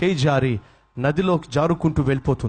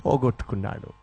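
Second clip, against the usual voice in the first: broken, sinking; 6 semitones lower, 4 dB quieter than usual. Acted. Final grief, sinking voice.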